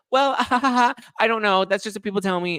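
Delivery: very high, loud mock tittering; fake modest giggle. Contestant flattered by suitor, hammed-up coy laugh.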